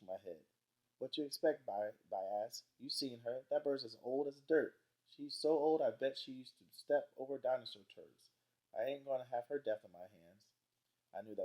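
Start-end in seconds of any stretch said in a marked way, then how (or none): 1.0-1.6 put-on defensive boy. A narrator's reading. Byron retorts about frail Grandma. 2.8-10.5 higher, louder exasperated Byron; defensive boy. Acted. Narrator voices Byron's retort.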